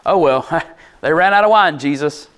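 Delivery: mock-offhand shrug with a little laugh; casual, offhand. Mary mentioning the wine to Jesus, wrongly imagined as casual and offhand. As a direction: toss it off like it's no big deal, chuckling. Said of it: "the inflection in her voice is not".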